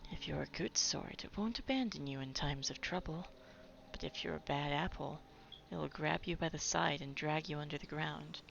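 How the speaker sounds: quiet, lightly voiced grandma; a hint of a gentle old woman; soft old lady voice. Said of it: "I don't do a very good old lady voice".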